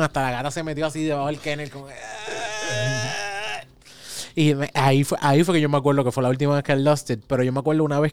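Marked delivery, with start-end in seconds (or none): 1.9-3.6 retold yell. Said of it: "grité bien cabrón".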